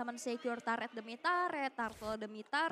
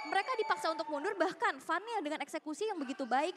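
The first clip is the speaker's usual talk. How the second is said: play-by-play commentary =29. Acted. Live esports play-by-play.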